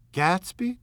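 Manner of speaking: high, sharp startled demand. Acted. Daisy to Jordan, demanding sharply about Gatsby. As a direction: pounce on the name. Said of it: "demanded Daisy".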